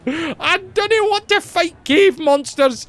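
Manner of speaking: lively Scottish brogue; Scottish accent. Acted. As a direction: do a hammed-up Scottish NPC. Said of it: "the entirely accurate Scottish accent".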